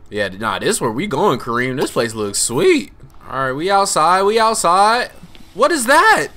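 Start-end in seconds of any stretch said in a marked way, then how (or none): 5.5-6.3 high, loud amazed whoa; loud startled exclamation. Real, not acted. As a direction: blurt it out in awe. Sees something in game.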